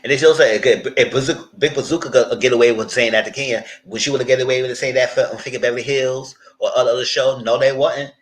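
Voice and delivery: loud, insistent ranting. Real, not acted. Loud, ranting at producers about double standards. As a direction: hammer the double standard home loudly.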